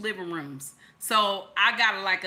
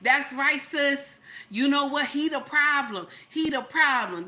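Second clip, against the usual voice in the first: high, loud cheering mimic of fake supportive sisters; mocking hype girl voice; 6 semitones higher, 4 dB louder than usual. Commenter gassing up a wife on her content, mocking hype voice. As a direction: egg her on like a fake friend. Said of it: "everybody on her content, like".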